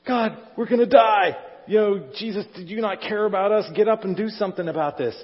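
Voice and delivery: loud, high panicked cry over the storm; panicked shout. Retold or imitated. Disciples in sinking boat crying to Jesus, panicked shout. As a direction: yell like you're about to drown.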